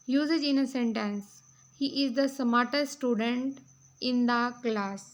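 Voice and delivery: reading out notes, very slow and deliberate; measured classroom read-aloud; slow dictation reading. Acted. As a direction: dictate each phrase slowly for students to copy. Reads example sentence slowly.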